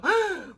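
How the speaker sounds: loud, high sharp inhale of horror; terrified gasp. Retold or imitated. Man walking by sees ankle, loud horrified gasp. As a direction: gasp as if you just saw the exposed bone. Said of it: "like he was terrified".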